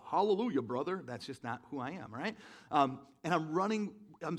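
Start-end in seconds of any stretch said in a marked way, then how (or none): 0.0-1.0 mock hallelujah. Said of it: "I'm not like a".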